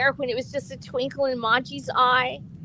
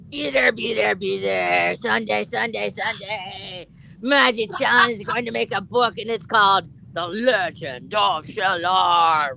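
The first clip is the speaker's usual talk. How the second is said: booming, slow wrestling hype call; wrestling promo; 3 semitones lower, slower than usual. Pretend. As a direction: hype it like a ring announcer. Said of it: "Do a wrestling voice".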